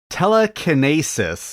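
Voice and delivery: "telekinesis" drawn out, stressed kuh-NAY-sis; odd pronunciation. Retold or imitated. Mocking how Kirk pronounces it, slow "telekinesis" with NAY. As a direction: say "telekinesis" slowly with NAY as third syllable. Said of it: "he pronounces the word".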